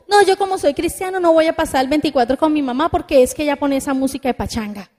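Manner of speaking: put-on fast, dismissive teen voice rattling off excuses; hammed-up young person brushing off mom; mocking whiny youth. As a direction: rattle it off like a bratty kid. Preacher mocks a dismissive youth.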